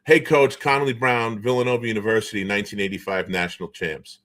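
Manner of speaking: lightly voiced buddy introducing himself like a press release; formal self-introduction. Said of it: "Connolly Brown says to him".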